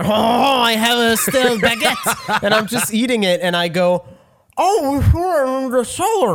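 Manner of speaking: talking through a mouthful of bread; mouth full. Pretend. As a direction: chew and talk at once. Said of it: "talking with your mouth full bit".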